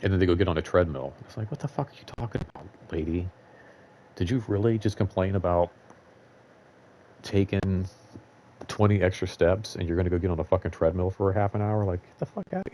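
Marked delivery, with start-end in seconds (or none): 1.5-12.7 exasperated inner rant. Retold or imitated. Worker silently rants at a treadmill-bound complainer, exasperated and fast. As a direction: fume under your breath at her.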